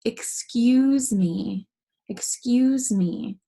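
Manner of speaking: slow, sing-song mock excuse me; polite sneeze apology. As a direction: act out saying sorry after a sneeze. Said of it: "it's like when you sneeze".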